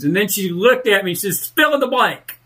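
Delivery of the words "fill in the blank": imitating mom, laughing as it breaks; mom's punchline half-laughed, half-crying; laughing through mom's words. Host retelling his late mama's joke, laughing.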